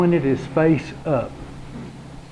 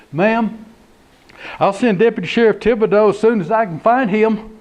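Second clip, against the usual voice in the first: quick, higher official voice; brisk dispatcher; 5 semitones higher than usual. Acted. Dispatcher promising caller a deputy, brisk. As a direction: rattle it off like a busy dispatcher.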